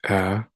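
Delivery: the short a sound of "A" said alone, drawn out like a teacher; isolated phoneme. Shown as a demonstration. Teacher showing pupils the first sound of apple, clearly. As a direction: model "A" as a lone vowel sound. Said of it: "the a sound".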